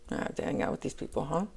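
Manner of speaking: whispered, fast, bored mutter; imitating the masculine who is tired of his friends; bored grumble. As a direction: grumble it under your breath like a bored guy stuck there. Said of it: "I feel his energy like, ugh".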